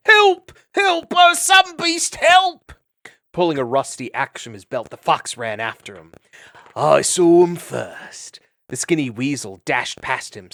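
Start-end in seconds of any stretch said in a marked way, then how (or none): 0.1-0.5 much higher, loud hammed-up cry; mock yell. Fleeing travelers calling for help, a loud fake yell. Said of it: "yelling aloud". 0.8-1.1 high, loud fake cry for help; mock yell. Fleeing travelers calling again, loud fake yell. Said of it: "yelling aloud". 1.2-2.7 much higher, loud slow wail for help; mock yell. Travelers luring vermin, loud pretend cry. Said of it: "yelling aloud". 6.8-8.4 greedy claim. Acted. Fox claiming the prey.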